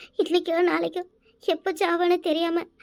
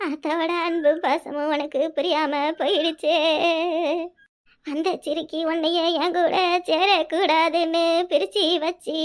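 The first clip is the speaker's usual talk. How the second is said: weeping lament. Acted. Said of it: "அழாதம்மா". (மகனிடம் புலம்பும் தாய், மெதுவான அழுகைக் குரலில்)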